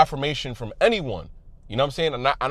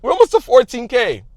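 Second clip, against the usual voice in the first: excited shout, much louder and higher; too loud; 7 semitones higher, 10 dB louder than usual. Real, not acted. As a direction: yell it out to the whole community. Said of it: "I'm too loud".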